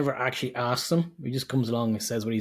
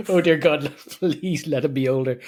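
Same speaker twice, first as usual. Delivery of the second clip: louder, laughing mock prayer; mock pleading; 3 semitones higher, 4 dB louder than usual. Co-host joking about the actor's age, mock desperate plea. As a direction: beg heaven in jest, stretching the please.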